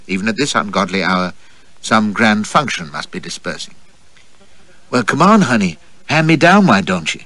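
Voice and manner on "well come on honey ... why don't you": higher, eager call to him; woman calling to be handed down from the cab, eager; crying out. Acted. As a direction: call up to him, keen and coaxing. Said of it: "cries my companion".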